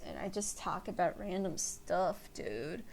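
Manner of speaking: mellow stoner talking to himself, fading. Shown as a demonstration. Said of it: "like this".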